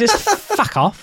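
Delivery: squeaky laughing repeat. Real, not acted. Echoing the punchline through real laughter. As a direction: laugh the words out high.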